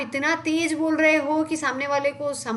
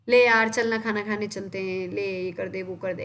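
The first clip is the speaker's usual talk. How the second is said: casual friend talk; 5 semitones lower than usual. Retold or imitated. Teacher imitates students chatting with friends, lightly casual. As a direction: toss it off like talking to a friend. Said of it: "दोस्तों में क्या बोलते हैं".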